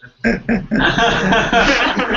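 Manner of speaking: high burst of laughter; amused laugh; real laugh. Real, not acted. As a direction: laugh at the absurdity. Laughs at own joke.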